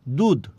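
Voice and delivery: দুধ ending in plain দ; aspiration dropped. Shown as a demonstration. Teacher showing lost aspiration, দুধ ending in plain d. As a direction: say দুধ with unaspirated final d. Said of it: "দুধকে কি বলছি?".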